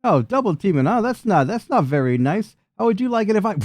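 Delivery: high, swooping mock protest; hammed-up high indignation; affronted villain. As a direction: play a put-out villain, pitched well up. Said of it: "So he's like".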